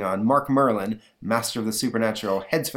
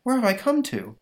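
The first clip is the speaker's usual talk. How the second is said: high, puzzled hero; lost and amazed; mock-bewildered cry; bewildered question; 13 semitones higher, 3 dB louder than usual. Mark bewildered.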